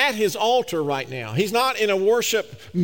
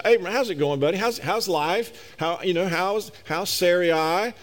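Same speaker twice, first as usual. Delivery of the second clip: facetious casual chat. Pretend. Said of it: "I'm being facetious now".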